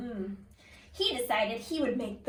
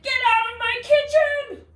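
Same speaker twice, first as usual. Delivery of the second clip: loud, higher angry shout; shouting chef; 9 semitones higher, 10 dB louder than usual. Acted. The chef throwing George out, loud angry shout. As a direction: bark him out of the kitchen. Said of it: "he shouted".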